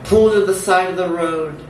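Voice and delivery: measured, incantatory spoken-word delivery; dramatic poem read aloud; poetry reading. Acted. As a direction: recite it in deliberate phrases with pauses between.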